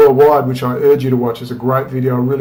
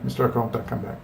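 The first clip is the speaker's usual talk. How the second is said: imitated whisper; 3 semitones lower, 10 dB quieter, faster than usual. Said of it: "They're just gonna whisper in my ear".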